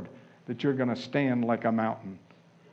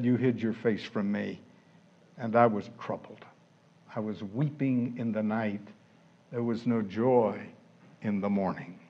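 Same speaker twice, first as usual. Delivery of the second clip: low, hushed sorrowful recital; subdued lament; 7 semitones lower, 10 dB quieter than usual. Acted. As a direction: voice David's grief softly and low, with pauses. Voicing David's troubled, weeping lament.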